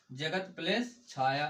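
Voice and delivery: slow, deliberate dictation pace; teacher dictating slowly. Shown as a demonstration. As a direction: lay each word out slowly. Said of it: "क्या?".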